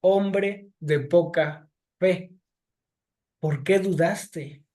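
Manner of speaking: slow, measured reproach; a gentle scolding, word by word; slow reproachful voice of Jesus; mild rebuke. Retold or imitated. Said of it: "Lo reprendió diciéndole".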